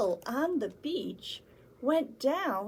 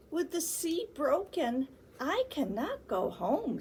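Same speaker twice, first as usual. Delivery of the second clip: sad whale; 5 semitones higher than usual. Acted. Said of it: "said the whale".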